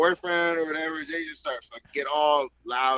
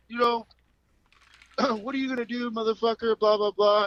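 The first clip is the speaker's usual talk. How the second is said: higher, taunting mock of the customer; lightly mocked customer tough talk; mocking the rude guy; 8 semitones higher than usual. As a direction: sneer it like a punk daring you. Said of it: "And the guy's like".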